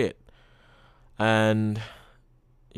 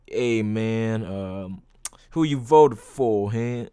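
mock African American accent, slowed down and pushed; bad African American accent impression; much slower than usual. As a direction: ham up a rough African American accent from Atlanta, not trying to be good. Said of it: "my impression of African Americans are really bad".

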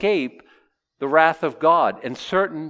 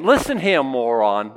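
mock insult; 3 dB louder, slower than usual. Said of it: "They're, they're saying".

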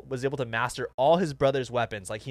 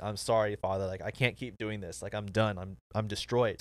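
low, soft voicing of a beaten fighter; retold defeated apology; 4 semitones lower, 6 dB quieter than usual. Storyteller voicing the broken turtle apologizing to his father, low and defeated. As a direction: quietly imitate someone giving up.

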